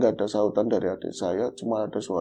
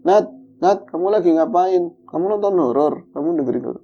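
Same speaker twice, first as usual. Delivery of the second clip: louder, raised call through the wall; calling out to sister; 5 semitones higher, 5 dB louder than usual. Retold or imitated. Brother calls his sister through the bedroom wall, raised and uneasy. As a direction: call out to her, a little uneasy. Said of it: "Saya panggil lagi".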